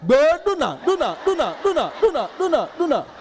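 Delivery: ringing, repeated taunt fading round the head; haunting echo of an insult. Retold or imitated. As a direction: let the insult echo in your ears. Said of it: "the insult started ringing in my ears".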